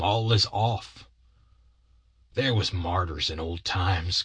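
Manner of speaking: lightly voiced aggrieved partner, solemn; long-suffering Bill. Bill confesses he sent the boy home, mildly mournful. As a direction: confess with a touch of wounded dignity.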